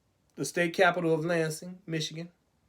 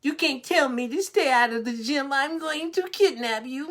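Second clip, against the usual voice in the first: higher, put-on whiny brat voice; spoiled child voice; 6 semitones higher than usual. A bratty legislator whines at the governor, higher and put-on. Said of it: "That's how the cats in Lansing sound".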